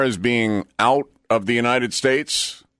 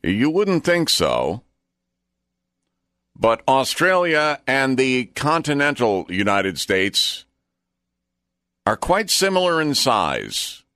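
slow, higher-pitched anchor delivery with long pauses; trivia segment presenter; 5 semitones higher than usual. Acted. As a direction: present the fact with measured suspense.

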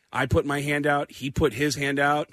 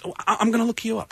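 Giuliani; 7 semitones higher, faster than usual. Retold or imitated. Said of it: "Giuliani was walking through".

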